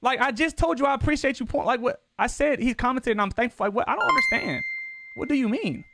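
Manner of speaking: high-pitched, indignant confusion; baffled protest. Real, not acted. Streamer explains he said he was thankful, baffled. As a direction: plead your case in a high, incredulous voice.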